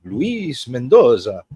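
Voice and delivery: slow, drawn-out name in a hammed-up Italian-ish accent; a loose, weird take on an Italian accent; mock Italian-ish accent. Shown as a demonstration. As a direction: roll out Luis Mendoza like a joke Italian host. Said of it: "See, I did an accent".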